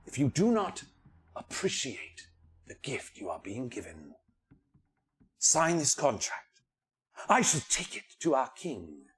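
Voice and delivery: eerie, solemn bird voice; ominous bird spirit. Acted. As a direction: threaten like an ancient bird.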